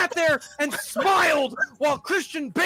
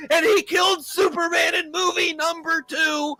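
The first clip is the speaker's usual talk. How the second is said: whiny upset fan; 4 semitones higher, slower than usual. Retold or imitated. Mocking fans who are up in arms, in a whiny wail. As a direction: ham up a crybaby fan's outrage. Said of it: "People were so up in arms".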